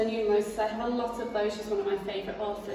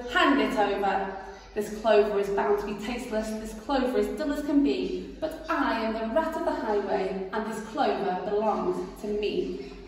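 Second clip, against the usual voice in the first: louder bossy robber voice; ordering rat; 4 dB louder than usual. Acted. Rat ordering the rabbit to hand over clover. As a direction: command it coldly. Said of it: "he ordered".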